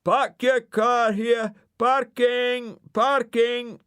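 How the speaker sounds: high, loud, slow calls through a loudspeaker; loudspeaker shout. Acted. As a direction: hawk parking spaces over a megaphone. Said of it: "Dougal shouted into the loudspeaker".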